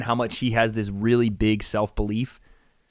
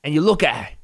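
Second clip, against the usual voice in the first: higher-pitched, muddled Irish-British impression; bad Connor accent; 5 semitones higher than usual. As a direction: coach someone in a wobbly mock Irish accent. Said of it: "I don't know what accent I'm doing".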